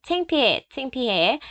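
창피해 said as dialect 창피, shorter and clipped; dialect pronunciation. Shown as a demonstration. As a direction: demo the regional 창피해. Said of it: "사투리 thì hay đọc là 창피".

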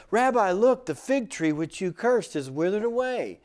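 imitating astonishment, high and loud at the start; shocked disciple. Peter pointing out the cursed tree to Jesus, acted shock. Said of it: "and he was shocked".

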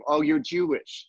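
slow, softened, friendly reaction; nice and soft. Shown as a demonstration. Host demonstrating the acceptable wording, soft and friendly. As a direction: ease gently onto the word, slowly. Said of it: "that's a nice soft".

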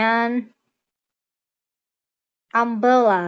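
an umbrella, said slowly; example phrase. Shown as a demonstration. Teacher giving an umbrella as example. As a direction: say an umbrella as a model. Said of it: "อย่างเช่น".

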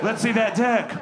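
high, loud laughing taunt; mock revenge yell. Imagined Josh taunting the comic, loud and laughing. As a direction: crow it like a bully finally getting even.

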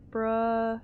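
"Bruh" drawn out on its own; practising a syllable. Real, not acted. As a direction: hold the vowel of "Bruh" while testing the sound. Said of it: "It's not working".

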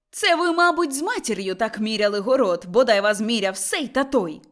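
moderately loud, scolding cry; angry shout. Acted. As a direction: shout a curse from the doorstep, not full force. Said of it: "крикнула Мотря на порозі так". (сварливий вигук)

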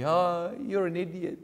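a light sneering tease of a friend; mildly mocking voice for a dim friend; mocking taunt. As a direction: poke fun at him, half-laughing. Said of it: "make fun of some people and say".

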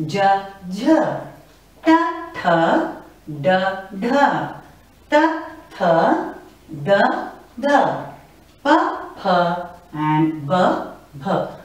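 "ja" clean, second "ja" with an H breath; "ta, tha", "da, dha", "pa, pha", "ba, bha": hit each second one with a puff; first of each pair plain, second with a stressed breath; aspirated pairs. Shown as a demonstration. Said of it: "you give a stress when you pronounce the second one".

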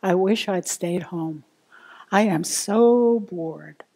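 quiet, low grumble of an inner voice; softly voiced bored complaint. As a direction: grumble it to yourself, drawing out the boredom. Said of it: "An inner voice may say something like".

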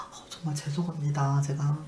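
soft, subdued apology; remorseful apology. Retold or imitated. Patient apologizes after hearing what caretaker endured, remorsefully. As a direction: apologize quietly and contritely.

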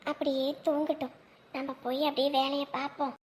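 soft, low relieved murmur; relieved hush. Acted. Mother murmuring softly beside the sleeping baby. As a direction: keep it quiet so the baby stays asleep. Baby finally asleep, whispering.

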